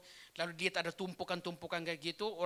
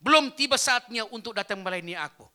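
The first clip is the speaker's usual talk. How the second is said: a booming voice sending him back; the Lord's voice calling his name; voice from heaven; 3 semitones higher, 10 dB louder than usual. Retold or imitated. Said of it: "ada suara ngomong kayak gini".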